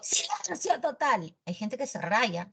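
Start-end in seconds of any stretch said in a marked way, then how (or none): 0.0-1.3 high-pitched mock yell, held back in volume; mock shout. Teacher imagines shouting in a classroom, high mock shout. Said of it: "si yo gritara en un salón".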